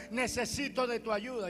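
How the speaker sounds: old man's plea, lightly voiced; old man's prayer. Old man praying in church, lightly voiced plea. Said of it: "El anciano decía".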